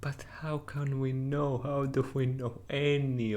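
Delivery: unvoiced anxious whisper; hushed uneasy whisper; whispered doubt. Character doubts reality.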